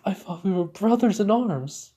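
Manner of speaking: high, hammed-up wounded wail; fake-crying, high-pitched plea; mock tearful. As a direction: play betrayed and close to tears. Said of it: "he was just pouring through tears".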